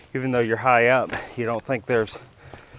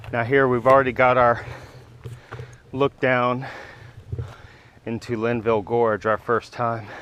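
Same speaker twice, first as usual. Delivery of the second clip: out of breath. Real, not acted. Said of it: "Sorry, I'm out of breath".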